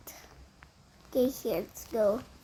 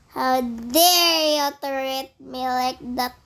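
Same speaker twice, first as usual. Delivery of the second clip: slow, louder mock indignation, stretching DARE; hammed-up outrage; 4 dB louder, slower than usual. Player repeats his scolding of Granny, slower and louder. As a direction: drag it out like a wounded diva.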